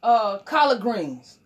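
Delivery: ordinary talk, nothing marked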